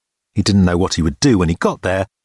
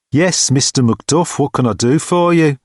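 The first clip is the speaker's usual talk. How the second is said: college porter; 6 semitones higher than usual. A narrator's reading.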